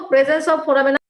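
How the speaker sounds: slow dictation. Shown as a demonstration. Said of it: "তোমাদেরকে বলছি খাতা কলম রাখার জন্য".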